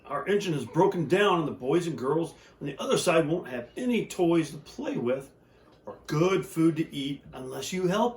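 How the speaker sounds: high pleading toy voices; toys crying out together. Acted. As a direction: beg the shiny engine in high little voices. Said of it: "cried out together".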